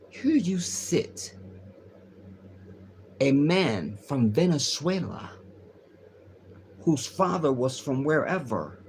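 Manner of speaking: imitating the Palestinian woman. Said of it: "this is how she speaks".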